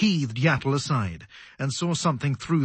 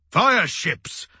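high, raised exclamation; grudging admiration; 7 semitones higher, 4 dB louder than usual. A narrator's reading. Commander realising the enemy's tactic, admiring exclamation. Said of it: "not without admiration".

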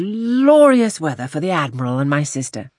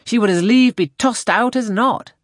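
animated gentleman, raised pitch and louder; hearty enthusiasm; 5 semitones higher, 4 dB louder than usual. A narrator's reading. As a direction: chat away brightly as a hearty captain. Wentworth's cheerful chat in read story.

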